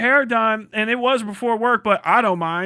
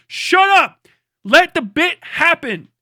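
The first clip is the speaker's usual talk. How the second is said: sudden yell, higher and louder; loud shut up; 5 semitones higher, 3 dB louder, slower than usual. Real, not acted. Comic yelling at an imagined heckler to let the bit happen.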